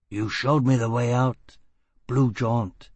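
a hint of rough gutter talk; gruff sailor. Foyle's voice.

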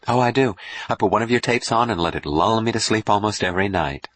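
lightly voiced admiring fan; gushing admirer. Dawn assures the doctor she loves his stories, gushing.

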